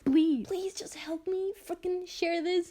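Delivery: slow, pleading whisper. Real, not acted. Begging viewers to share.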